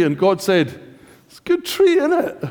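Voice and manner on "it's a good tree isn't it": amused God. Retold or imitated.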